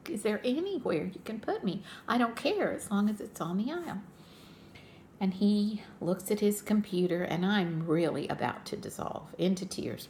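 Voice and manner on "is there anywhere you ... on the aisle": imitating her own teary pleading; retold tearful plea. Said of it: "I almost cried".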